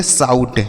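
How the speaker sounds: "साउट" with ou sounded as "आऊ"; ou read as au. Shown as a demonstration. Teacher reads out the spelled word, "साउट" with au. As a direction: model "साउट" with an au glide. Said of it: "इसे पढ़ेंगे".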